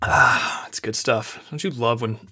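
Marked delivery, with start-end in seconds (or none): 0.0-0.6 refreshed sigh after a swig; satisfied ahh into the mic; right in your ear. Real, not acted. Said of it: "take a swig of water right in your ear".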